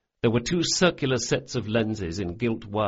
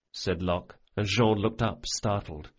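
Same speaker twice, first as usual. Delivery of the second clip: ordinary delivery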